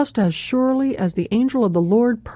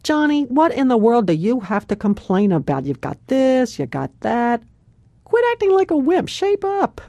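exasperated scolding; 3 semitones higher than usual. Retold or imitated. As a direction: imitate an impatient friend telling her to shape up. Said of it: "stand there with their hands on their hips and say".

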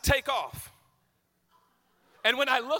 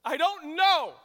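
higher, a little louder, helpless; sheepish reply; 7 semitones higher, 6 dB louder, slower than usual. Retold or imitated. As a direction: shrug it out like a caught kid. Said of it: "And I remember going".

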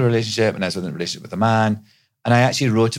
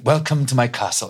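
lightly hammed-up Scottish laird, raised pitch; 4 semitones higher than usual. Shown as a demonstration. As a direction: greet guests as a theatrical laird. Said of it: "Scottish laird".

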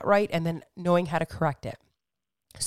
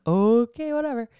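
mock shrug; 4 semitones higher, 5 dB louder than usual. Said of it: "he's like".

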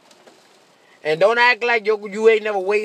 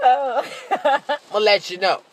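laughing; 2 semitones higher, much slower than usual. Real, not acted. Laughing catchphrase after joke.

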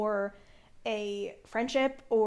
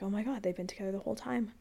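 whisper; 8 dB quieter, much faster than usual. Retold or imitated. Shocked realization told to herself.

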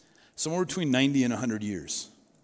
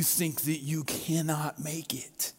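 whisper; 6 dB quieter, slower than usual. Real, not acted. Sermon's intimate encouragement.

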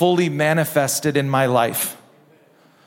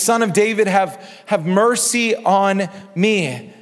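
mildly raised cry, drawing out "mercy on me"; crying out insistently. Retold or imitated. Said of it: "he cries out all the more".

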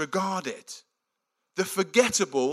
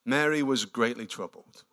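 slow reading; 8 semitones lower, 4 dB quieter than usual. Shown as a demonstration. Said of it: "I love this passage".

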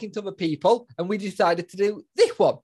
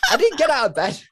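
laughing; 7 semitones higher, 4 dB louder than usual. Real, not acted. Correcting himself, laughing.

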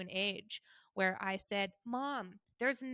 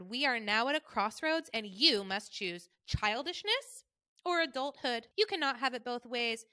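mom's tone; 4 semitones higher, 4 dB louder than usual. Retold or imitated. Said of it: "this is how she talks".

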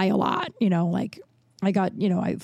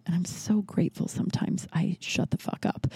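whisper; 6 dB quieter than usual. Real, not acted. Aside about staying quiet.

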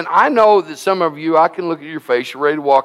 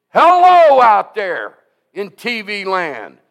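calling out; 3 semitones higher, slower than usual. Real, not acted. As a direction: call out across the airwaves. Preacher calls out to viewers.

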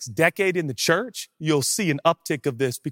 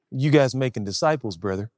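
gruff believer. Acted. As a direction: press it gruffly at usual pitch, dropping on brother. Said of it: "you're intense, we're gruff".

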